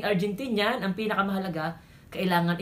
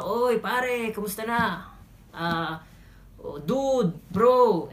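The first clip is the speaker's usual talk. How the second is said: casual buddy greeting; 3 semitones higher, much slower than usual. Shown as a demonstration. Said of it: "Parang dito sa atin".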